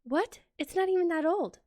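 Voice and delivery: confused disbelief. Retold or imitated. Patient hears her filling fell out, retold confused disbelief. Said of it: "I was so confused on what just happened".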